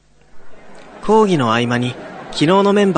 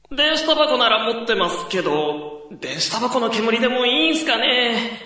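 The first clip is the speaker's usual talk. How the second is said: put-on casual young guy; 10 semitones higher than usual. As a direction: shrug it off as a student. Young man character. (軽い後輩口調)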